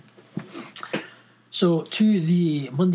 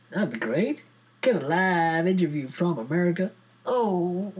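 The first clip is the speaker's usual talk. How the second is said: put-on dodgy American accent. Podcaster welcoming American listeners in a dodgy American accent. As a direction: play a cheesy American radio host, badly. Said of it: "ditch the accent".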